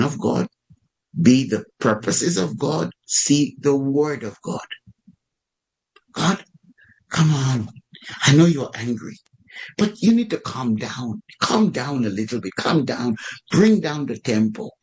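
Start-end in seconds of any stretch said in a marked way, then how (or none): 6.1-14.7 casually talking an angry person down; coaxing Moses. Acted. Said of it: "I can't imagine that he said it like that".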